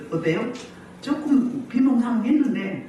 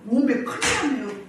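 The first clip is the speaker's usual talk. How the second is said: lightly voiced Jeolla dialect exclamation; mock Jeolla dismay; 4 semitones higher than usual. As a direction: put on a touch of Jeolla dialect. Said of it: "전라도 말로".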